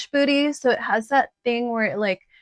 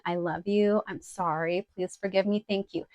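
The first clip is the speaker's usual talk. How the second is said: softer, gentle recitation of the mantra; soft prayer recital; 2 semitones lower, 5 dB quieter than usual. Shown as a demonstration. Teaching viewers the ho'oponopono mantra, softly recited. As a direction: say it quietly like a healing mantra. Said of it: "So it goes, once again".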